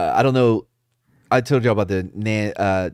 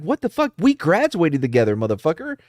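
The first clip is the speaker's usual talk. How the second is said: higher-pitched, comically exasperated protest; mock indignation; 5 semitones higher than usual. Retelling his protest to schoolmates asking where he's from, mock indignation. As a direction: act put out at an old friend.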